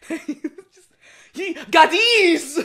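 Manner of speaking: very slow, drawn-out Ye gaddies; odd reading. Acted. Reading Shantae dialogue aloud, a slow silly drawl. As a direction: stretch Ye gaddies out way too long. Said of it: "I don't know why I read it like that".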